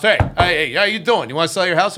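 lightly voiced pushy Marine pitch; mock tough salesman. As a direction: bluster up to the door. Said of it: "tough Marine guy".

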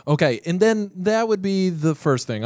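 whisper. Real, not acted. Continues whispering.

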